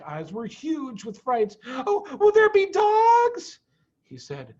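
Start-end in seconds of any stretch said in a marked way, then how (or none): 1.7-3.6 put-on much higher, small frightened child voice; a child asking Mommy in fear; scared little fox. A narrator's reading.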